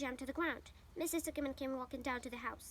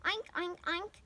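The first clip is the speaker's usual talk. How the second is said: higher, loud playful oinking; pig oinks; 5 semitones higher, 4 dB louder, slower than usual. Pretend. The speaker pretends to be a pig, loud playful oinks. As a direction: oink like a pig for fun.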